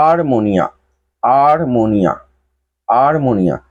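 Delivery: আরমোনিয়া said slowly, each syllable clear; a careful teacher's repetition of আরমোনিয়া; slow spoken demo. Shown as a demonstration. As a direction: model আরমোনিয়া three times, carefully. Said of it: "যেভাবে উচ্চারণ করো সেভাবে উচ্চারণ করতে হবে".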